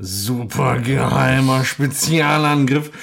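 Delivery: slow, drawn-out imitation of a hero's attack line; imitated special-attack call. Podcaster mimicking the film hero's pervy attack call, drawn-out imitation. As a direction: draw it out like a hero's secret move. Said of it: "Das kann man ja gar nicht nachmachen".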